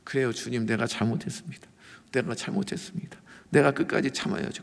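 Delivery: softly acted, meek confession to God; quiet, resigned penitent, lightly acted; mock tearful repentance. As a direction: imitate a subdued, contrite prayer. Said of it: "고개 끄덕끄덕하고 눈물 흘리면서".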